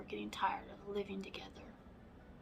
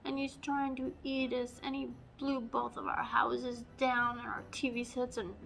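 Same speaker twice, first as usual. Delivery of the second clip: much higher, loud frantic pleading; panicked pigs; 5 semitones higher, 6 dB louder than usual. Acted. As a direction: gabble it out in a fright. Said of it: "And they said".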